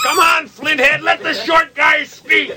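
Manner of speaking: high, drawn-out comic shout; high-pitched heckling, slowing at the end; mock heckler. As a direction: shout from the crowd in a put-on voice. Second mock heckler joins in.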